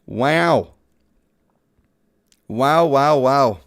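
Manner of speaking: loud, genuinely impressed wows; excited wow. Real, not acted. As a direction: cheer the lucky pull out loud. Reacting to a lucky pull.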